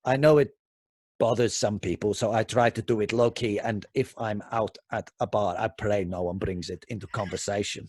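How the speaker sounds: lightly put-on Russian accent. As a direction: read it in a mild Russian accent. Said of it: "Why, why the Russian accent?".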